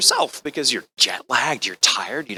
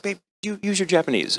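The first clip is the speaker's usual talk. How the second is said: soft, higher-pitched nudge; hushed prompting; 6 semitones higher, 7 dB quieter than usual. Retold or imitated. Brandon nudges his partner to speak Japanese, hushed prompting. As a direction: prompt someone discreetly, keeping it small. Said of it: "And he goes, like".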